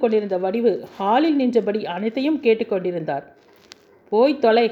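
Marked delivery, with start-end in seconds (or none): 4.1-4.6 loud, sharp get-lost shout; shouted dismissal. Acted. Husband shouting his wife away, loud angry shout. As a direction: hurl it at her. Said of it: "என்று அவன் கத்திய".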